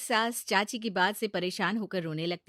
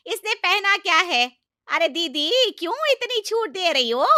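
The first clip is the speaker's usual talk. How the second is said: much higher, loud accusing outburst; furious aunt-in-law; 9 semitones higher, 11 dB louder than usual. Acted. Aunt-in-law shouts at the mother-in-law about freedom, loud furious outburst. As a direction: accuse her of spoiling the bride.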